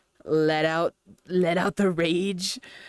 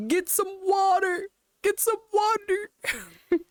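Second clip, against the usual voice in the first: panicked shout; 13 semitones higher, slower than usual. Real, not acted. Choking on KFC, shouting.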